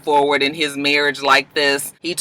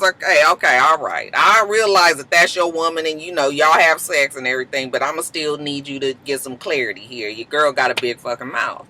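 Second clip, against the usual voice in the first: a lightly lowered, calm man's voice; Marcus voice; 4 semitones lower than usual. Acted. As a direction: play him measured and reasonable, pitched down. Marcus answering the rumor talk.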